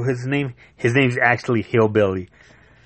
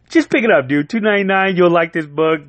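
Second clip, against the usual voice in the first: excited urging; 5 semitones higher than usual. Real, not acted. Urging viewers to buy.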